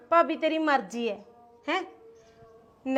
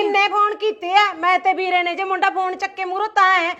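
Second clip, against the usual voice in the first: angry; 3 semitones higher, 6 dB louder than usual. Acted. Quarrel continues.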